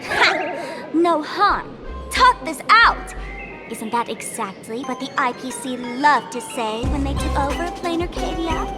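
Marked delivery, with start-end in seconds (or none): 0.9-3.1 scornful repeat of their plea; incredulous scoff; mocking echo. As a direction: throw their words back, slowly. Villain throws the plea back.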